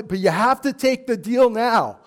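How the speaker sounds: car salesman. Retold or imitated. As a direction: rush the customer into deciding. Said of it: "the car salesman".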